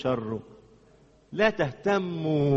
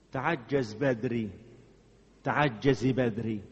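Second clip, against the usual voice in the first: slow grave warning; 6 semitones lower, slower than usual. Real, not acted.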